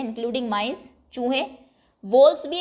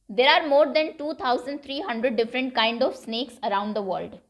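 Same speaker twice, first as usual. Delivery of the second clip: reads the English sentence out slowly and evenly; measured read-aloud pace for learners; much slower than usual. Shown as a demonstration. Teacher reading the English text to students, slow and deliberate.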